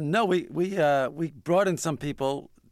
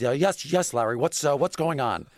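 higher, hearty boss answering the phone; Steinbrenner voice; 5 semitones higher, 3 dB louder than usual. Retold or imitated. Steinbrenner answering Larry's call, higher hearty boss voice. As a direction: imitate a big blustery owner picking up the call.

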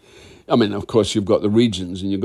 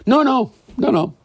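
emphatic denial; 4 dB louder than usual. Real, not acted.

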